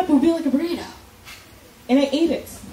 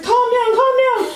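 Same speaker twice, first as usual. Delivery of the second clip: higher, louder urgent calm down; doctor shouting calm down; 10 semitones higher, 4 dB louder than usual. Retold or imitated. Doctor to screaming patient and nurse, higher louder calm down. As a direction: shout it to settle the chaos. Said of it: "He's like".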